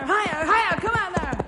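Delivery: hollering up the canyon at the strays; calling out. Acted. Boy on horseback calling out to drive the cattle.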